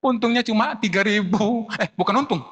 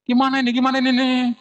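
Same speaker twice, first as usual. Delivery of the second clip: lightly acted fretful plea, higher pitched; mock fretting; 4 semitones higher, 4 dB louder, faster than usual. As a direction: play someone at a loss, higher and urgent. Acting out a distressed child's panic.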